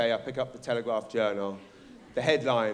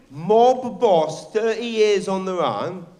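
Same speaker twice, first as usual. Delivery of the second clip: big headline shout; 5 semitones higher, 7 dB louder, slower than usual. Retold or imitated.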